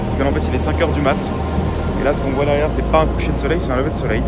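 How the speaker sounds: groggy vocal fry, just woken up; rough morning vocal fry. Real, not acted. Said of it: "avec ma voix du matin".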